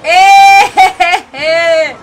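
shocked yelp. Real, not acted. Shocked outburst.

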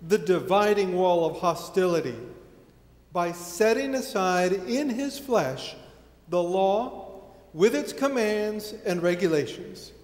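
measured reading with deliberate pauses; scripture reading. Acted. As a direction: read the passage solemnly, phrase by phrase. Reads scripture aloud to congregation.

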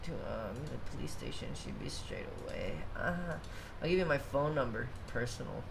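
lightly voiced smarmy officer; sleazy cop voice. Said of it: "can you voice act that?".

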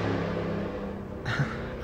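breathy laugh without voice; airy, voiceless laughing fit; real laugh. Real, not acted. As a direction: crack up mid-wish. Cracks up mid birthday wish.

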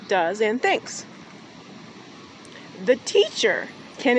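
slow, emphatic quote reading with long pauses; reading a quote aloud. Acted. Vlogger reads a campus quote to viewers, slow and emphatic. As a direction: read it out slowly, weighting key words.

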